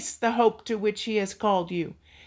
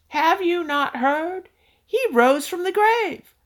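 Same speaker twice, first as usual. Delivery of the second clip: rising proclamation; 5 semitones higher than usual. Acted. Preacher proclaiming the resurrection.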